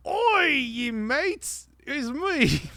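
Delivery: drawn-out, high-pitched fake British; badly faked British greeting; mock British accent. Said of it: "high-pitched British accents".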